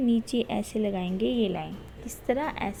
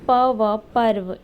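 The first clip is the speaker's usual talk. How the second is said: slowly and loudly spell out ये प व पर्व; slow, loud syllable-by-syllable spelling for pupils; 7 dB louder, much slower than usual. Shown as a demonstration. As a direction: build the word sound by sound. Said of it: "spelling the word out".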